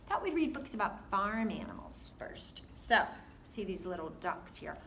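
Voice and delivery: sing-song storybook voice for little ones; reading to a toddler. Acted. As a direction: read it like to a small child. Reads a farm book to kids.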